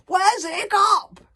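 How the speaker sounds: slow, loud, high demand; shouting. A narrator's reading. Gobber demanding answers from Fishlegs, shouting. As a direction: bellow the question slowly. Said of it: "shouted Gobber".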